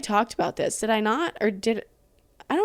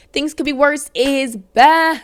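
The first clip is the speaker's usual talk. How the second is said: slow, loud, higher announcer voice; show announcement; 6 semitones higher, 7 dB louder, much slower than usual. Acted. To listeners announcing the podcast's comeback, slow loud announcer call. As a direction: stretch it out like a big show intro.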